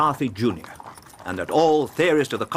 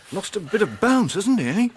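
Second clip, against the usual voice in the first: a gloating chuckle at a rival's setback; mocking laugh; 8 semitones higher than usual. Lestrade to Watson about the sulking Holmes, gloating chuckle. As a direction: laugh at Holmes losing his bounce.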